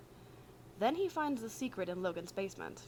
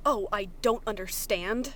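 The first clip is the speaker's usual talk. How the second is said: incredulous retort; 6 dB louder than usual. Acted. Virgil throws the words back.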